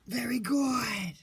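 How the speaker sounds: slow, high, loud praise; loud excited praise. Real, not acted. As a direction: cheer the dog on warmly.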